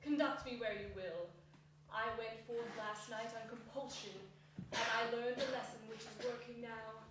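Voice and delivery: soft, humble plea; submissive. A narrator's reading. Scrooge humbly asking the spirit to teach him, soft. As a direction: speak meekly, bowed. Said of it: "said Scrooge submissively".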